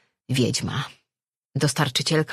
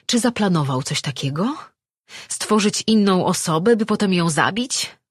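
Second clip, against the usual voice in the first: higher, indignant questions; accusing; 5 semitones higher, 4 dB louder than usual. Acted. Man accusing his creator of planning his death, accusing. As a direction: build the accusation, growing louder. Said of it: "spojrzał na nią oskarżycielsko".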